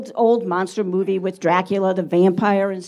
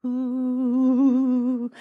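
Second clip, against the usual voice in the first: spooky bat hoot; 2 semitones higher than usual. Acted. Imitates the bat appearing.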